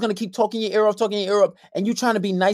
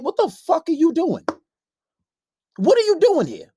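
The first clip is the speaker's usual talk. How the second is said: high, sharp mock outrage; inner outrage; 7 semitones higher than usual. In his head at the girlfriend at his door, outraged. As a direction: let the inner voice go off. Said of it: "in my head, I'm like".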